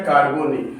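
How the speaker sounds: कार्बोनिल said kaar-bo-nil; model pronunciation. Shown as a demonstration. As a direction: give कार्बोनिल its short "-nil" ending. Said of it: "इसका pronunciation है". (कार्बोनिल, "निल" पर ख़त्म होता उच्चारण)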